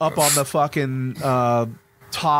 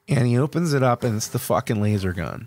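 ordinary delivery

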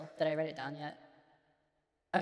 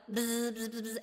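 buzzing bug; 4 semitones higher than usual. Pretend. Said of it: "Do I sound like a bug?".

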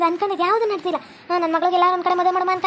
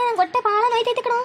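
ಹೊಟ್ಟೆ wailed higher in mock agony; higher fake wail; 4 semitones higher than usual. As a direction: cry it out like a hammed-up invalid. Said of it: "ನಾನ್ ಈ ಥರ ನಾಟಕ ಮಾಡ್ತಿರೋದು".

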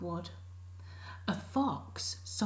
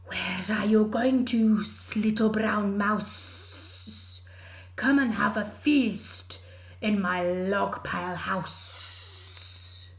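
slow, breathy louder snake voice; hissing snake; 5 dB louder than usual. Acted. Snake tempting the mouse to a feast, slow and breathy. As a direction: draw it out like a snake.

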